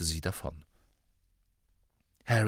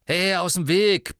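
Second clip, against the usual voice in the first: loud, high, brusque order; barking; 8 semitones higher, 8 dB louder than usual. A narrator's reading. Boy orders a small girl aside, barking. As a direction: bark it at someone blocking you. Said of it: "bellte Ron ein kleines Mädchen an".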